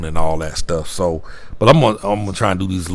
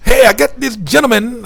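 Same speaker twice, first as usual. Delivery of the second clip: high, louder mock Canadian clerk; Canadian accent; 6 dB louder than usual. Hotel lady saying no rooms, high Canadian accent. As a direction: keep the chirpy Canadian lilt throughout. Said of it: "I can't make the accent".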